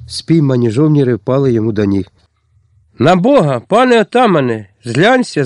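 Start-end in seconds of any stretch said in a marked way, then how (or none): 3.0-5.4 soldiers wailing at the chieftain's feet; wailing plea. Acted. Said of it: "зарепетували вони".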